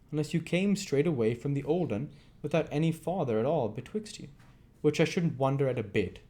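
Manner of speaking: lightly voiced rough robber. Robber Sikes mocking Fagin, lightly voiced jeer. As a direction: sneer it at the old man.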